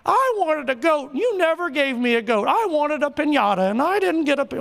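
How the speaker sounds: mock whining child; whiny older son. Pastor mocking the jealous son, petulant whine. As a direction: pout it out, self-pitying. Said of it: "he's like, woe is me".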